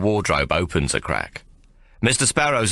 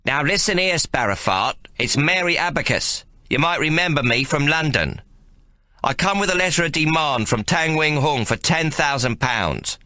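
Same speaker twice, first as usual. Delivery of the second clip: shouting; 7 semitones higher than usual. A narrator's reading. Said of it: "Mary is shouting to make sure".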